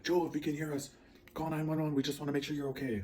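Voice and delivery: high, carrying megaphone call, imitated; police PA announcement. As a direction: mimic a cop calling over a loudspeaker. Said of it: "announcing it, like, every so often".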